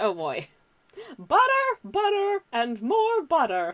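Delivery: high, animated voice swooping around in pitch. Reading a viewer's comment aloud in the requested voice: Julia Child voice. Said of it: "Archon says in Julia Child voice".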